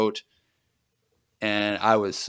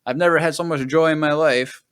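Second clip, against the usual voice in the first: giddy villain gloating; 4 semitones higher than usual. Retold or imitated. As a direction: gloat like a villain who just won. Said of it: "he's, like, super happy and giddy".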